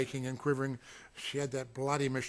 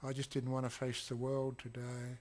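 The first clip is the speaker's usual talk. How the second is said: quiet quote; 6 dB quieter than usual. Retold or imitated. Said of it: "she said".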